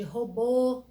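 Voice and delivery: robô with a closed final ô; closed vowel. Shown as a demonstration. Teacher giving circumflex example, closed vowel. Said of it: "me dá um som fechado".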